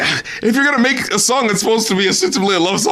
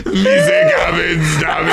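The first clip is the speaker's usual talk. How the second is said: put-on Jamaican accent; 2 semitones lower than usual. Host ridiculing the rapper's hook again, laughing Jamaican accent. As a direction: squeal the fake Jamaican hook while cracking up. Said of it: "just to do it in the Jamaican accent".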